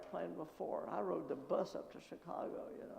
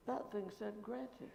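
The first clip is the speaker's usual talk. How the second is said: slow, softer, sinking in; slow dawning thought; slow realization; 2 semitones higher, 3 dB quieter, slower than usual. Retold or imitated. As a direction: let it dawn on you slowly. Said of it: "I thought".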